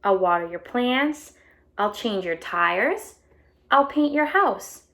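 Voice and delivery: bright storybook read-aloud voice; animated picture book reading; reading to children. A narrator's reading. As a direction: read it out to a class of kids. Reading the egg's first-person story.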